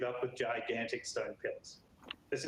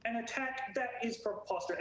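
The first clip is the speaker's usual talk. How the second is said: scoffing guard; 9 semitones higher than usual. Acted.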